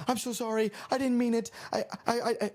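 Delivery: high-pitched, stammering apology; imitating a panicked apologizer; retold frantic apology. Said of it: "I'm literally like this in this tone".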